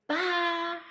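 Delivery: ordinary talk, nothing marked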